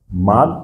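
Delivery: mad with a short flat A; model word. Shown as a demonstration. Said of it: "nous avons mad".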